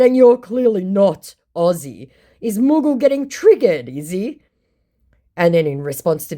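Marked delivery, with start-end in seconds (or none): 0.0-4.4 teasing jab. Retold or imitated. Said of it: "I said".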